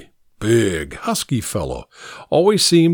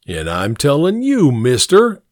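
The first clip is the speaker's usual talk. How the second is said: mocking New England accent. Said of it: "Castwell mimicked the driver's New England accent".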